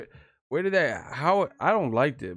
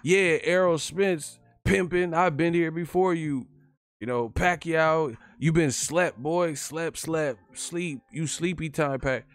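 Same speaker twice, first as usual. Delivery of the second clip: higher, cocky trash-talk voice, slow at first; Keith Thurman impression; 7 semitones higher, slower than usual. Mocking Keith Thurman taunting rivals, a higher cocky trash-talk voice. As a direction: strut through the taunts pitched up. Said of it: "he be like".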